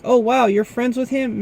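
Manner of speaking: high, amazed question; astonished disbelief; surprised. Retold or imitated. Employees react amazed.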